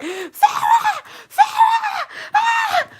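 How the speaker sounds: very high wailing cries of Farrah; mother screaming her name. Retold or imitated. Grieving mother at the wake, shrieking high. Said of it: "She was like".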